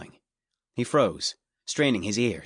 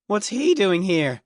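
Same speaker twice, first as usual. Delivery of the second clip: loud, slow booming shout; booming guard; 9 semitones higher, 5 dB louder, slower than usual. A narrator's reading. Guard calls out to Dort, booming loud. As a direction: boom it out like a burly guard. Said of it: "one of the guards boomed".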